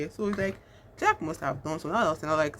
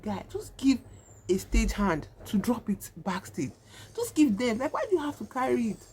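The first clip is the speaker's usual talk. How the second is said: higher-pitched exasperated protest; exasperated plea; 5 semitones higher than usual. Retold or imitated. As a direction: plead with him in mild frustration. Exasperated viewer pleading with film character.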